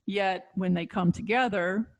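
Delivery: normal talking voice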